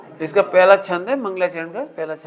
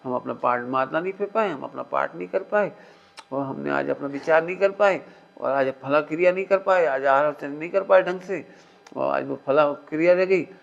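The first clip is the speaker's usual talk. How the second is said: mock complaining; 5 semitones lower, 3 dB quieter than usual. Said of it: "दुखी बने रहते हैं".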